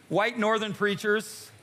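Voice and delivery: slow, drawn-out words for the crowd to echo; call-and-response line. Shown as a demonstration. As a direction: lead the congregation through white northern preachers slowly. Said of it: "everybody say it with me".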